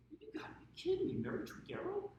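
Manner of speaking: loud, high retold disbelief; can't believe it, voice leaping up; incredulous. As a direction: exclaim it in acted astonishment. Acts out his disbelief at staff.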